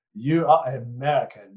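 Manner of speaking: lightly put-on German accent, barely there; half-hearted German accent as the German student; a weak, self-mocking German accent; bad German accent. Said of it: "I'm not doing a very good German accent".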